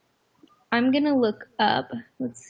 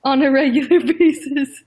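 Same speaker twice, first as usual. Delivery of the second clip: laughing; 3 semitones higher, 7 dB louder than usual. Real, not acted. Laughs while reading.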